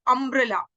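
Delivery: अम्ब्रेला opening on a short "uh" vowel; correct pronunciation. Shown as a demonstration. Teacher shows the class the vowel sound, अम्ब्रेला begun with "uh". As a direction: say अम्ब्रेला with an initial "uh". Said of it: "वो अ की तरह आएगी".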